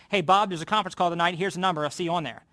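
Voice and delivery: brisk, matter-of-fact phone call to a team member; casual heads-up on the phone; quick announcing call. Shown as a demonstration. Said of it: "Announcing is".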